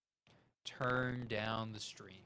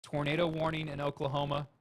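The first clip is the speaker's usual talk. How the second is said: robot voice; 3 semitones higher than usual. Pretend. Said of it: "in my robot voice".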